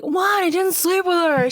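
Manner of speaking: high-pitched protesting boyfriend imitation; hammed-up denial, pitched well up; mock indignant denial. Voicing boyfriend's denial in film retelling.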